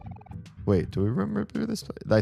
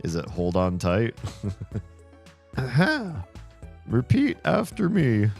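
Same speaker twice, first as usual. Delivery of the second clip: clown voice. Acted. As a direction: play it like a cheerful clown. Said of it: "a clown voice or something".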